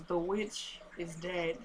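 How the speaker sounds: slow, very soft and low; mock stage whisper. Veronica whispering secretly to her husband, slow stage whisper. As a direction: imitate a secret whispered slowly in an ear. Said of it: "and then she whispers into".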